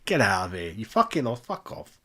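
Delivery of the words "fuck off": breathy whispered fuck off. Real, not acted. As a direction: hiss it under your breath. Ranting, repeats it under breath.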